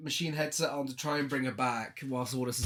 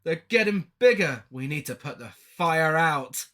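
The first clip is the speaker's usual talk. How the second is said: mock panicked doctor; 4 dB louder than usual. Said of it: "He's like".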